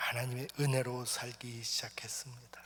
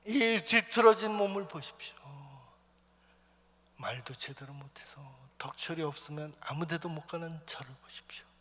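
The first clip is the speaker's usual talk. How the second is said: retold angry outburst at God. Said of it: "하나님한테 화를 냈어요".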